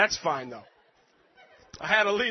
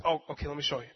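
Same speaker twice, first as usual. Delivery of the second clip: patient; 6 semitones lower, 3 dB quieter, much faster than usual. Retold or imitated. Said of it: "with such patience".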